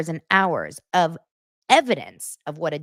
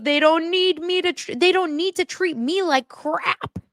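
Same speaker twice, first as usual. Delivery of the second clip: high whiny mock protest; mocking Cody; 11 semitones higher than usual. Vlogger mimicking Cody's complaint about his kids, high whine. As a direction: complain it like a hurt child. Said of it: "He goes".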